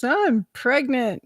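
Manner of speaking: imitated tearful blurt; retold tearful confession. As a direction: drag it out as if sobbing. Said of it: "I'm sobbing. I'm a snot-nosed mess".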